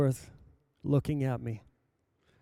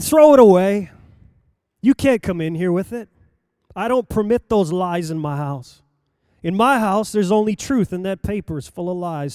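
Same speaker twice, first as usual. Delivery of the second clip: stern command; 3 semitones higher, 7 dB louder than usual. Retold or imitated. Stern preacher orders paper out.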